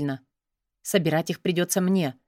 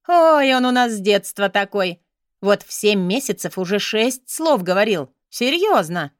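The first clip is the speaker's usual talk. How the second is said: loud, eager bragging mother; gushing proud mother; 4 dB louder than usual. Acted. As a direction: gush over her son. Proud mother gushes about son.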